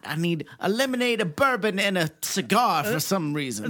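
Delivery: hammed-up Southern courtroom complaint; Southern lawyer. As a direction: play a wilting Southern attorney. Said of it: "in this southern law office".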